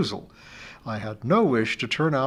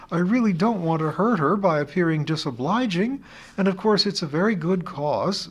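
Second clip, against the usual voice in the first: wailing fretfully; 5 semitones higher than usual. Acted. Teacher wails her worries down the phone to Amy. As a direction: fret aloud, voice pitched way up. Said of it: "I wailed".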